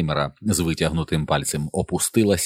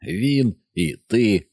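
in unison; 5 semitones higher, much slower than usual. A narrator's reading. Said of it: "в один голос сказали".

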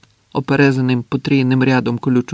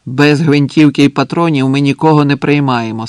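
louder, firm announcement; calling out; 5 dB louder than usual. Acted. Sentry to the man below, calling out. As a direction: project the rule down to him.

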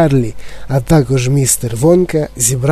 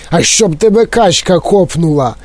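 indignant; 3 semitones higher than usual. Acted. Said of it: "обурився містер Вонка".

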